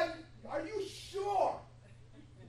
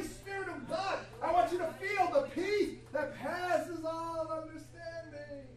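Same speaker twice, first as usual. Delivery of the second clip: urgent, loud coaxing voice of God; a fervent, insistent call to listen; God pleading; 4 dB louder than usual. Pretend. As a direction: plead with them to finally get it.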